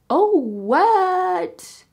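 high, stunned "oh, what?"; shocked gasp. Retold or imitated. Reader reacting in shock to a character's death. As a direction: squeal it in disbelief. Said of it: "And I was like".

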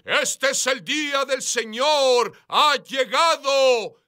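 high, slow, drawn-out proclamation; voice from heaven. Retold or imitated. Heavenly voice announcing the Lord's day, high slow proclamation. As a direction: proclaim it from on high, stretching the words. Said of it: "oí una voz del cielo decir".

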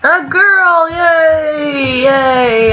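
high, loud happy cheer; excited cheer. Real, not acted. Gamer cheering her sim's new baby girl, loud and high.

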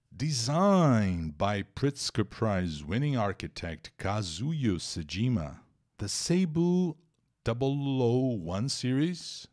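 deliberate teacher read-aloud; slow reading of an English text for the class; slow careful English reading. Shown as a demonstration. Reads English passage.

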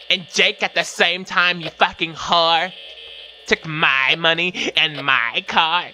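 lightly hammed-up mean-girl taunting; white girl voice. Playing Ashley cussing out Becky, mild white girl voice. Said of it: "all the white girls talk like this".

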